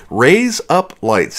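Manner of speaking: "Raise up lights" run together with a laugh, near "razor blades". Shown as a demonstration. Demoing the joke for viewers while laughing. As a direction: chuckle through "Raise up lights" so it blurs. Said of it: "Give it a try".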